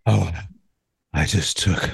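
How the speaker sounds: very low, slow, drawn-out diva voice; Greta Garbo. Retold or imitated. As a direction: play a languid screen diva, with long dramatic pauses. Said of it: "And this Greta Garbo".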